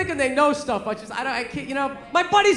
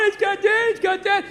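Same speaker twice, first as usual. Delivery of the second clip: put-on higher-pitched prattling child; mock a kid who won't stop; kid going on; 7 semitones higher than usual. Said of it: "kid just kept going on and on".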